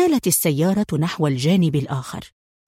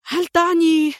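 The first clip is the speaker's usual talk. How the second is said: much higher, startled question; startled exclaim; 11 semitones higher than usual. A narrator's reading. Qadri to Adham, grasping the danger, a startled high question. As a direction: gasp out the question in alarm. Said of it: "هتف قدري".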